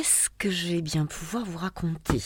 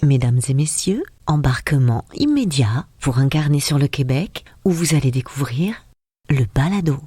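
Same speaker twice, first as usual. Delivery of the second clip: airport announcement; 3 semitones lower, 5 dB louder than usual. Pretend. Pretend boarding call.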